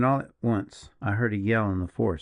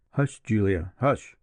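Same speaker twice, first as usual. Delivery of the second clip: husband hushing; slower than usual. A narrator's reading. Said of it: "cried her husband".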